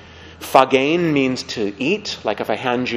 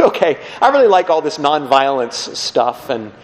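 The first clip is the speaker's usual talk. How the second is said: baffled listener. Acted. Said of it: "you're sitting there thinking".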